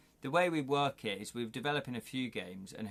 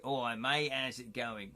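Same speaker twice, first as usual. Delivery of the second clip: put-on London gangster-film accent; lightly hammed-up East End accent; Guy Ritchie cockney. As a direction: greet them like a cockney geezer. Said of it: "you know, Guy Ritchie".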